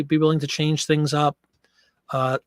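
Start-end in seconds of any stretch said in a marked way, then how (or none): 2.1-2.4 breathless after a walk; out of breath. Real, not acted. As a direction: talk while catching breath. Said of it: "I'm out of breath tonight".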